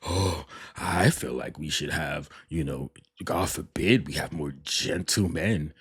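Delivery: slow, mocking imitation of his dig; mock sarcastic. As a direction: drag it out like a smug sarcastic host. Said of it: "here you go being sarcastic".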